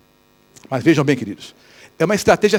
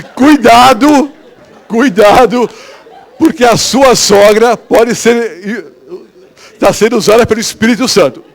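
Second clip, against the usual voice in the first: emphatic warning; 4 semitones higher, 7 dB louder, slower than usual. Retold or imitated. Preacher's warning reply, retold.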